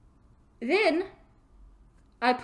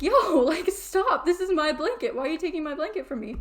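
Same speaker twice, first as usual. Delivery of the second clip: mock scolding; 5 semitones higher than usual. Scolding the shadow figure over the blanket, higher. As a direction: tell him off with a laugh in the voice.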